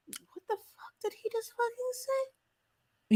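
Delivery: imitating a stunned reaction shot; shocked disbelief. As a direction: draw it out, aghast at what he said. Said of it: "it shoots to Queen's face like".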